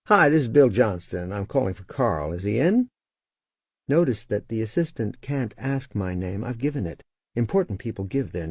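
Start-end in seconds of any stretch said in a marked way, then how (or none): 0.1-2.9 authoritative caller. Shown as a demonstration. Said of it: "as I show you how".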